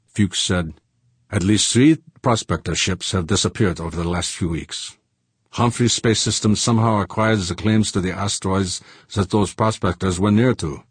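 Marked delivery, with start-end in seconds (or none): 1.3-10.8 a hint of a Germanic-accented man; lightly voiced accented accuser. Prospectors' ally accusing a corporation, measured and lightly accented. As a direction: lay out the accusation steadily.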